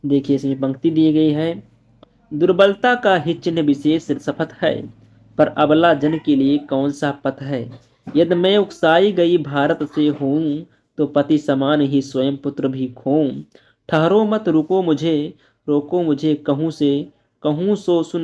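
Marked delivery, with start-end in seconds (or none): 2.3-13.4 slow, measured reading of verse; slow classroom poetry recital; poem recitation. Acted. Teacher recites poem lines. 13.9-14.5 dramatic call. Acted. Dramatic line within poem.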